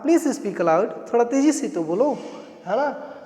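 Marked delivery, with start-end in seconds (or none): 0.0-1.1 slow model phrase. Shown as a demonstration. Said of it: "आपने क्या कहा?".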